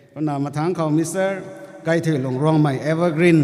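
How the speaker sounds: formal name announcement; calling out names. Real, not acted.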